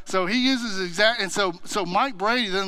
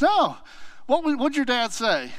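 surprised friend; 5 semitones higher than usual. Retold or imitated. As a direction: leap up in disbelief, then ask. Charlie questions Greg's grounding.

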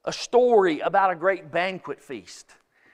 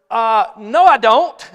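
laughing no; 3 semitones higher, 12 dB louder than usual. Retold or imitated. Wife laughing as she teases her husband, loud and amused. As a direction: blurt it out through a laugh. Wife's joking retort, laughing.

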